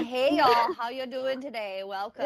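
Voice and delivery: mock Southern greeting. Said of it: "It's better than".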